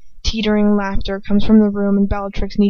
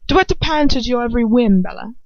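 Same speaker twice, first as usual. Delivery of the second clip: contemptuous drawl; 5 semitones higher than usual. A narrator's reading. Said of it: "Lucius drawls".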